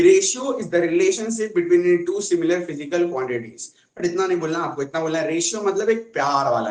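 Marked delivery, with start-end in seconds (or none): 0.0-3.6 slow, word-by-word textbook definition; mock schoolbook definition read slowly; textbook recitation. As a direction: recite it like a school rote answer. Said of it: "ऐसे बोलते थे कि".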